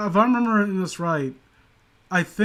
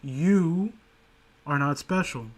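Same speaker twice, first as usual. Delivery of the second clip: sincere; 3 semitones lower, 4 dB quieter than usual. Real, not acted. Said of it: "I'm saying this from a place of, like, earnestness".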